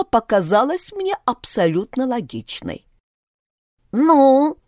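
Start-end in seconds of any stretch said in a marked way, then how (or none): 3.9-4.6 grumbling. Acted. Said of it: "услышала я ворчливое".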